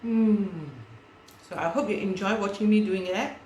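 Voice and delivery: talking through a mouthful of food; words rounded by a bite still chewing; mouth full. Real, not acted. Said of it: "speaking with my mouth full again".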